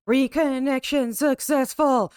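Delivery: slow, drawn-out system announcement; slow, playful proclamation; mock announcement. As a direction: announce it grandly, stretching the words. Mock announcement of being back online.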